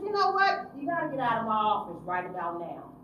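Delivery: loud, cold order out; angry dismissal. Retold or imitated. Counselor ordering the youth out of her office, loud and cold. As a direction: throw him out.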